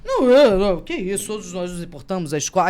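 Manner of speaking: a hint of flustered stammering, voice catching; retelling her flustered reply, barely holding back tears. Teacher to crying student, flustered and stammering. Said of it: "porque eu gaguejei".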